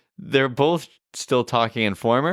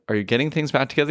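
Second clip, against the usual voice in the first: quick sly retold question; insinuating question; 4 semitones higher, much faster than usual. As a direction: toss it off fast and knowing. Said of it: "they kind of insinuated".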